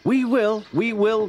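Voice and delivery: put-on high, loud children's chorus call. A narrator's reading. Children leaving Toby after holidays, calling back. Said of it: "called the children".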